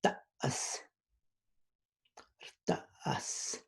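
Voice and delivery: Rtas said with a creaky vowel and a falling tone. Shown as a demonstration. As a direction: let the pitch drop through Rtas. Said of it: "hear the falling tone".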